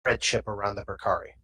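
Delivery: low muttered aside; mumbled under breath. Acted. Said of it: "mumbles under, under his breath".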